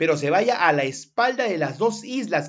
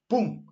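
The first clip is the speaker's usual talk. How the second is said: quick higher-pitched "pum"; cannon boom; 5 semitones higher than usual. Shown as a demonstration. Teacher drills the cannon sequence, imitated boom. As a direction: imitate cannon fire in one syllable. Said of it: "¿Cómo es el cañón?".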